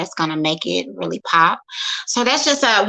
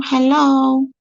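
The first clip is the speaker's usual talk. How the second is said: raised, higher calls of hello into a frozen stream; calling out; 6 semitones higher, 5 dB louder, slower than usual. Real, not acted. Streamer calling out to viewers while the phone freezes, loud and high. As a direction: call out loudly to check if anyone is there. Checking if the stream still works.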